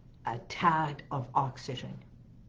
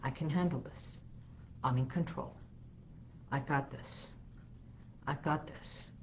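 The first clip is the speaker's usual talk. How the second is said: soft affirmation; 9 dB quieter than usual. Shown as a demonstration. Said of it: "And breathe calmly".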